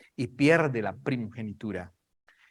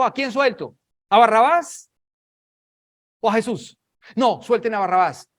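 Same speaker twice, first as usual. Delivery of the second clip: high, projected calling out; loud public exchange; 7 semitones higher, 8 dB louder than usual. Acted. Pilate and the crowd deciding whom to free, loud and raised. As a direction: call it across a crowd.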